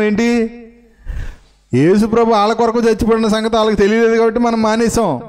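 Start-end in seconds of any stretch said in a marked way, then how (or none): 1.7-5.2 pitched up and pushed, driving the point home; raised preaching voice. Real, not acted. Preacher raising his voice so the point sinks into the congregation's hearts. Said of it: "గట్టిగా చెప్పాను మీకు ఈ విషయం".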